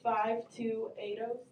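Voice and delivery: mock-patient, very slow, each number drawn out; slow, spelled-out explanation. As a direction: spell it out slowly as if it's obvious. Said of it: "duh, like this".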